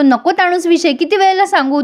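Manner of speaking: a mock-angry snap. Husband fed up with wife's nagging: mock angry. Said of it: "Shashank खूप चिडतो आणि म्हणतो".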